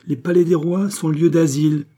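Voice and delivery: emphatic declaration. A narrator's reading. King answers the queen's protest, emphatically. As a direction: declare it loudly with conviction.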